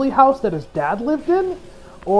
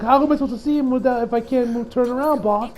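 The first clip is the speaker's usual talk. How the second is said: freaking out; 5 semitones higher than usual. Retold or imitated. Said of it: "Doppio kinda, like, freaking out".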